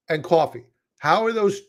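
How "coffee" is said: "coffee" with a Brooklyn vowel; light natural Brooklyn accent on "coffee". Real, not acted. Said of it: "That's my Brooklyn accent coming in".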